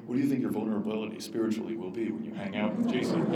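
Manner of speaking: mock earnest question. Shown as a demonstration. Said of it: "where you talk like this".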